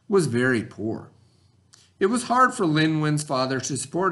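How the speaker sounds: reading a story aloud to the class. A narrator's reading. Teacher reading the story to her students, storybook voice. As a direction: read it like a storybook for kids.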